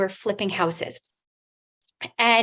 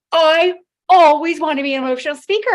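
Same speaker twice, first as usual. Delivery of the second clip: louder, higher and fast, bursting with joy; thrilled; 6 semitones higher, 10 dB louder, faster than usual. Retold or imitated. To Zig Ziglar's vision, answering in overjoyed excitement. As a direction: blurt it out, overjoyed.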